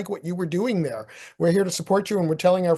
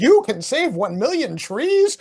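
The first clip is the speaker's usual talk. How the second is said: tagline; 8 semitones higher, 5 dB louder, slower than usual. Retold or imitated. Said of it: "he changed the whole packaging".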